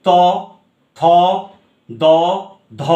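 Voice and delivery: ত, থ, দ, ধ sounded singly, with pauses; dental sounds demonstrated. Shown as a demonstration. Teacher has students try dental sounds, each letter said separately. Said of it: "উচ্চারণ করে দেখো".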